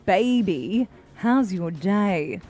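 news reader voice. Pretend. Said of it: "puts on her very best news reader voice".

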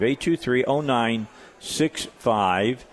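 slow, spaced digits for callers; slow repeated number. Real, not acted. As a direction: spell the number out slowly. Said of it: "number repeated slowly".

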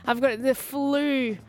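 mock whinge, sagging at the ends; whinging. Woman retelling how she moaned to her friends, whinging. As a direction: whine about feeling poorly, drawing words out. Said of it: "I was whinging like you wouldn't believe".

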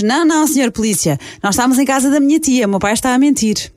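put-on child's voice. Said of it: "e a criança de sete anos diz".

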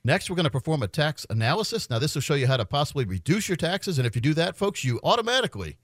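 steady radio sales pitch; infomercial. Acted. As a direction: pitch the offer like a radio host. Live on-air ad pitch.

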